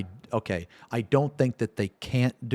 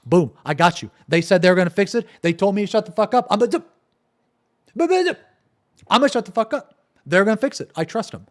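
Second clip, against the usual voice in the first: much higher, delighted fan voice; happy fan; 9 semitones higher, 4 dB louder than usual. Retold or imitated. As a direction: squeal it like a relieved, thrilled player. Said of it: "that would be like".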